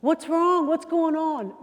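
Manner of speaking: loud, high confrontational questions; in-your-face. Shown as a demonstration. Trainer showing what not to do to an agitated guest, loud and pushy. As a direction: get right up in their face. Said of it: "get up in somebody's face and go".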